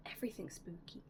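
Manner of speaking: spooky whisper. Acted. Storyteller telling viewers she loves spooky things, whispered. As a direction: drop to a hushed, eerie whisper.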